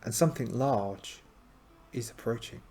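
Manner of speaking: dramatic adventure narrator; story narration. A narrator's reading. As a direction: read it like a gamebook, with suspense.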